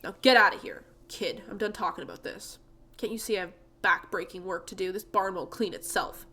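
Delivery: a hint of grumpy old man; gruff old man. Jasper complains about his son-in-law, gruff. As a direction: grumble bitterly like an old farmer.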